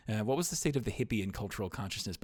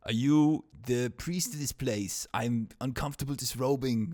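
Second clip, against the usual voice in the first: put-on Conan accent; 3 semitones higher, 5 dB louder than usual. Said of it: "I can do this accent".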